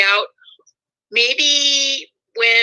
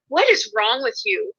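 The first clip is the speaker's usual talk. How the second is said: higher-pitched retold exasperation; exasperated; 10 semitones higher, 3 dB quieter than usual. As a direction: ask it in exasperated disbelief, pitched up. Looks at chewing relative, annoyed.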